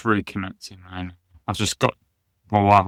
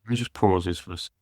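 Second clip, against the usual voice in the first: breaking up over the connection; call dropping out; 3 semitones lower, 5 dB quieter than usual. Real, not acted. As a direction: voice cutting out on a bad line. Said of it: "the signal keeps cutting out".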